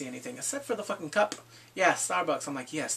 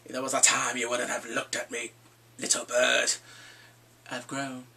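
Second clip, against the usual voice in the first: low Hound voice; 5 semitones lower than usual. Retold or imitated. Voicing the Hound talking to Sansa.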